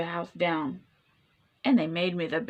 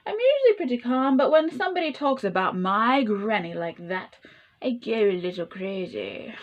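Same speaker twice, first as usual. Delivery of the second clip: wolf voice. Acted. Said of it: "said the wolf".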